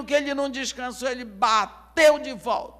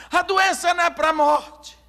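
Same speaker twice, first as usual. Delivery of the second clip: announcing; 5 semitones higher, 6 dB louder than usual. Acted. Messenger announcing to crowd.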